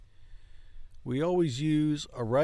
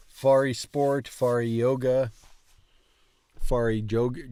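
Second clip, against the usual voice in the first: amused; 6 dB louder, much slower than usual. Real, not acted. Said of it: "that always cracks me up".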